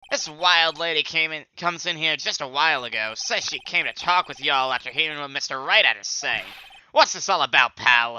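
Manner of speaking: put-on loud southern accent for the detective questioning Phoenix. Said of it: "like, a southern accent for him".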